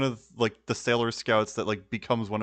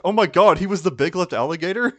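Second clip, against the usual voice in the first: mock surprise; 6 semitones higher, 7 dB louder than usual.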